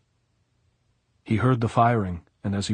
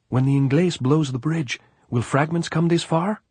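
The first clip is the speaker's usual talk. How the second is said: higher, louder questioning gypsy voice; anxious gypsy; 8 semitones higher, 5 dB louder than usual. A narrator's reading. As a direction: call it out high from behind cover. Gypsy asks from behind tree.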